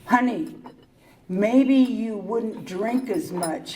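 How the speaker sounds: gentle husband voice. Retold or imitated. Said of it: "he came to me very nicely".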